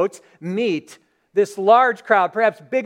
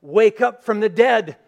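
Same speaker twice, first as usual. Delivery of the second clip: rising into a louder command on wake up from the dead; 3 semitones higher, 5 dB louder than usual. Acted. Jesus at the casket calling the son awake, loud command. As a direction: call the dead man up with authority. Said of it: "he touches it, and he says".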